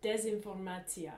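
Desinformatia said in a Russian accent. Shown as a demonstration.

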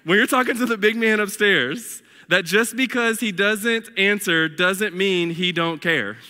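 second try, country twang still creeping in; earnest reading with a country twang; country accent. Acted. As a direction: try it straight but slip into country. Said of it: "can't even read it without a country accent".

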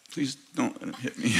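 small, quiet inward plea; inner pleading. Retold or imitated. Pastor privately prays as the fist swings, quiet pleading. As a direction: beg silently, voice dropped. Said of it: "inside I'm like".

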